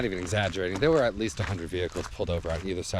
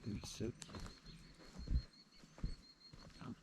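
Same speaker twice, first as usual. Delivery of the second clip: wildlife watching whisper; 17 dB quieter than usual. Real, not acted. Watching beaver quietly.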